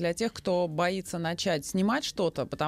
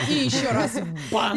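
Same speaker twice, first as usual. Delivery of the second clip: laughing; 4 semitones higher, 5 dB louder, slower than usual. Pretend. Host jokes, laughing.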